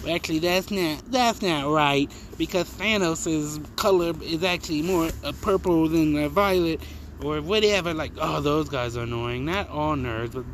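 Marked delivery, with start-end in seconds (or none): 0.1-6.8 mock nerd. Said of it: "and they're like".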